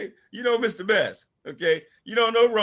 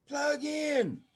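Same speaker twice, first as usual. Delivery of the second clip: emphatic shout; 8 semitones higher, 4 dB quieter than usual. Real, not acted. Speaker urging his business team: high rallying shout.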